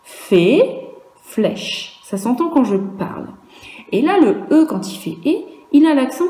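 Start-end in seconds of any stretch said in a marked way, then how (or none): 0.0-0.6 «Fée» said louder, with a rising pitch; «Fée» with an upward tune. Shown as a demonstration. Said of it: "Écoute bien la différence". 1.2-2.0 «flèche» said softer, dropping in pitch; «flèche» with a downward tune; falling tune. Shown as a demonstration. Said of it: "Écoute bien la différence".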